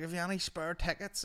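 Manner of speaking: high-pitched cadging street lad; spide character. Retold or imitated. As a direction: cadge like a wasted spide. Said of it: "he's like".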